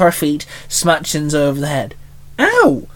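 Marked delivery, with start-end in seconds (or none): 2.4-2.8 high yelp, cut short; sharp yelp of pain. A narrator's reading. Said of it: "Shinzo barked".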